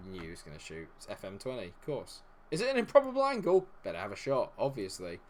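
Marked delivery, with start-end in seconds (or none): 2.5-3.7 high, loud, quick exclamation; shouted disbelief at the game; incredulous outburst. Real, not acted. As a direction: fire it out in a raised, high-pitched yell. Incredulous reaction to a shot in-game.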